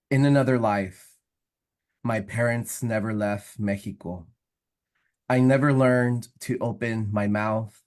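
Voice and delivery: measured poem recitation with pauses between lines; poetry reading. Acted. Poet reads own poem to evening audience, measured recitation. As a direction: read it as a poem, one phrase at a time.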